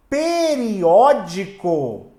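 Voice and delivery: "Periódico" split slowly into syllables. Shown as a demonstration. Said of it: "Você tem a separação assim, ó". ("Periódico" pronunciado sílaba por sílaba, devagar)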